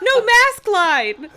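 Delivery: very high, loud, slow shout; loud cry. Acted. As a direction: bellow it drawn out. Repeats Carly's cry.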